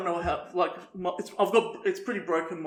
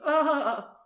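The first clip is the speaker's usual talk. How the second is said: dolphin cry; 9 semitones higher than usual. Retold or imitated. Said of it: "She goes".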